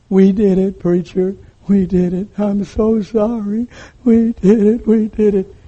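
thin, high voice imitating a girl; tearful confession. Girl confessing to her preacher, imitated tearful voice.

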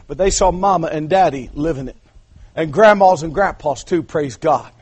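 ordinary talk, nothing marked

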